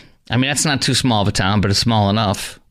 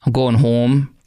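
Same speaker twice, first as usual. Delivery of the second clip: "phone", "home" and "food" drawn out with long Upper Midwest vowels; a hint of a Minnesota accent, slowed on "I'm on the phone"; slower than usual. Shown as a demonstration. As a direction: lightly mimic a Minnesota local. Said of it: "That's how they talk in Minnesota too".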